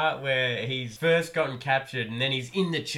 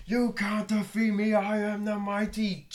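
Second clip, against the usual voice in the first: higher, hammed-up boast; mock heroic Thor; 7 semitones higher than usual. Fan quoting Thor boasting to the nurses, mock heroic. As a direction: puff up like a mighty god. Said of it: "he's like".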